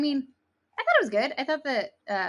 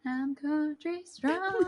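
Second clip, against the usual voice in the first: dramatic movie voice; 7 semitones higher, much slower than usual. Pretend. Quoting movie title dramatically.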